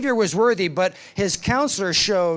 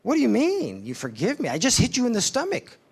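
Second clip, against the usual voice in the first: astonished; 5 semitones higher than usual. Retold or imitated. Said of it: "an astonished look on his face".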